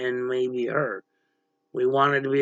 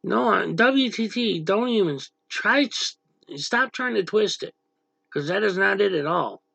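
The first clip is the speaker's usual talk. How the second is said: higher, stumbling and frustrated rebuttal; exasperated protest; 5 semitones higher than usual. Real, not acted. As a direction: cut off the twisting, frustrated. Rebutting a chat accusation.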